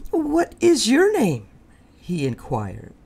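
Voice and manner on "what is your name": high, prim, polite little voice; polite Fluffy. Acted. Embarrassed porcupine asks the rhino politely. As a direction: ask nicely after clearing the throat. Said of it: "tried to be polite".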